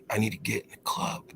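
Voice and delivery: murmured, barely voiced; mumbling at the bouncer over the noise; too-quiet request. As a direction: say it under your breath. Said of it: "you're gonna have to speak up".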